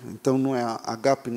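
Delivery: agape with stress on the last syllable. Shown as a demonstration. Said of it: "o grego não suporta a primeira sendo a sílaba tônica".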